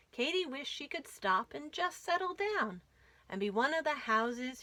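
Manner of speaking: lively rhyming storybook read; reading to children. A narrator's reading. Host reads the caboose book aloud to kids, lively. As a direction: bounce the rhymes for little listeners.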